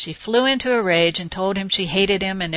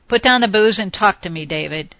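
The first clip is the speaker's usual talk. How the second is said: commanding; 4 dB louder than usual. Acted. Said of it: "she commanded".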